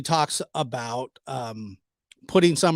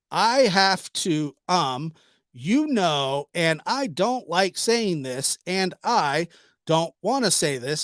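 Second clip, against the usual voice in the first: slow halting imitation; slower than usual. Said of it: "that's how she says it".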